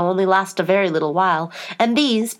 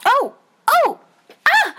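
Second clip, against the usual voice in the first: high, loud little yelps; three startled shrieks, acted; short shrieks; 5 dB louder, slower than usual. A narrator's reading. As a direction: yelp sharply, high and sudden. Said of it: "a series of shrieks of".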